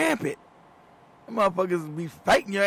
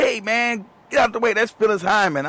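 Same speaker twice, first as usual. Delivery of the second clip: higher-pitched retold warning; urgent warning; 4 semitones higher, 4 dB louder than usual. Friend telling him to move for a famous singer, urgent. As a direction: imitate a friend urging someone aside.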